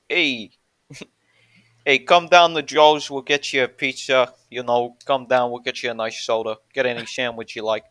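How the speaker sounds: hammed-up New York deli-guy patter; stereotypical New York accent. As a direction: play a stereotype New Yorker luring customers in. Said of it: "New York accent".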